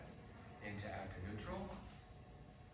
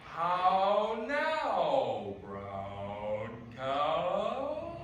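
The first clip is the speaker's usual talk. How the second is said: louder, long stretched vowels; slow projected vowel demo; drawn-out demo; 6 dB louder, much slower than usual. Shown as a demonstration. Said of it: "Second circle".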